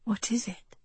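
breathy unvoiced whisper. A narrator's reading. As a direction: whisper it, scared of being heard. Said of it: "Kelsey whispered".

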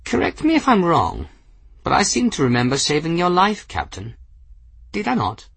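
put-on high, airy eccentric old gentleman; old man voice. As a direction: play a whimsical elderly wizard. Narrator voices Ferris.

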